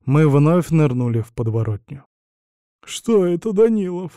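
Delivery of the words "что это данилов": higher, whiny frightened whimper. A narrator's reading. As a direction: whine it out in fear. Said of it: "хныкал граф". (хнычет, выше)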